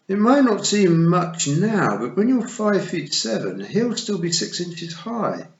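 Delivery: a dry little toad spelling it out slowly. A narrator's reading. The toad explaining the height problem to Tiffany, slow.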